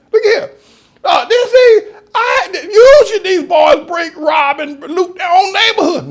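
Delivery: high, loud, laughing exclamations; high, loud whooping glee; laughing excitement. Real, not acted. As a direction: crow with delight between laughs. Laughing exultant story of looting.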